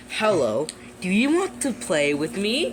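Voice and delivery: lightly voiced creepy game villain luring a player; creepy demon invite. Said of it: "then says something like".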